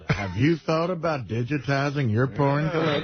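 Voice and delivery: imitating a salesy pitch; lightly mocking sales voice; mock infomercial voice. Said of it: "You just sounded like an infomercial".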